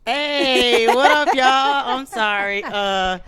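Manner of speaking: talking around chewing gum; gum in mouth. Real, not acted. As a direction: speak with gum in your mouth. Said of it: "I had some gum in my mouth".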